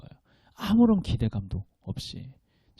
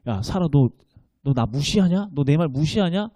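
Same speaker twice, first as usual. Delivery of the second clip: mock scolding. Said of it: "이런 의미로 하나님께서 이렇게 말씀하셨을까요".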